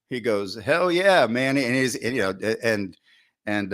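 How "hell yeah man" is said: mock enthusiastic agreement; eager hell yeah. Coordinator eagerly vouching for a legend, mock excited.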